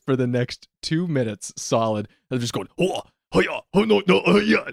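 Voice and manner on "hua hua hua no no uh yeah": higher, mock stereotypical Asian accent exclamations. Retelling two actors on stage, mock stereotypical Asian accent. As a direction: imitate actors trading put-on Asian-accent cries. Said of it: "doing stereotypical Asian accents".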